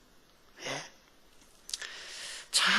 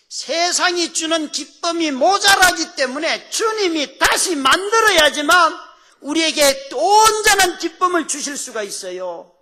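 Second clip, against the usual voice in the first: high, loud, impassioned proclamation; full-force preaching; 11 semitones higher, 6 dB louder than usual. Real, not acted. Preacher to congregation on Christ's joy, forceful proclamation. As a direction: proclaim it loudly at a raised pitch.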